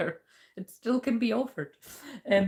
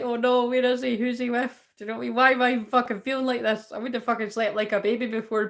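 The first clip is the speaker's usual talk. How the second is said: higher, louder agitated mock worry; fretful past self; 5 semitones higher, 5 dB louder than usual. Reader mimicking their sleepless past self, agitated and high. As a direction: act out your own fretting, pitched up.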